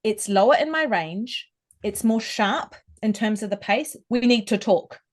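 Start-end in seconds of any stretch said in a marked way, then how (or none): 4.1-5.0 straight and direct like a bullet; blunt, direct demand. Shown as a demonstration. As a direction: fire it straight down the line. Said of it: "It's direct, like a bullet".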